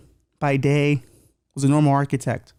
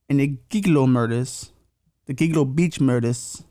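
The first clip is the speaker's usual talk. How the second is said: put-on half-hearted Long Island accent. Host naming the beach murders, weak Long Island accent. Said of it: "that's my Long Island accent".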